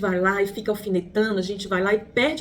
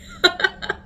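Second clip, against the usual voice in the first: short airy high-pitched laugh; 10 semitones higher than usual. Real, not acted. Laughing at her mother's lesson about gifts, short high laugh. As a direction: burst into a quick breathy giggle.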